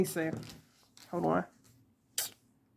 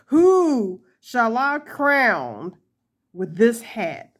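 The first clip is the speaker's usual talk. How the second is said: mock royal; slower than usual. Mock royal question about hat.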